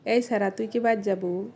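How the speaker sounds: regional Sirajganj Bengali accent; Sirajganj dialect. Shown as a demonstration. Asking a boy if he's going home, Sirajganj dialect. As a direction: ask it like a Sirajganj local. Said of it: "এটাকে আমরা আঞ্চলিক ভাষায় কিভাবে বলবো".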